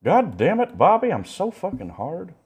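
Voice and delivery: high, loud, laughing redneck voice; hammed-up high hillbilly rant; Bobby impression. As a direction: ham up the Bobby character. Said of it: "Bobby's impression".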